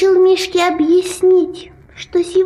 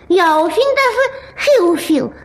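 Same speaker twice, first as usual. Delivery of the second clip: mushy lisp; words mashed by tongue; swollen tongue. Acted. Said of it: "грешневая каша во рту".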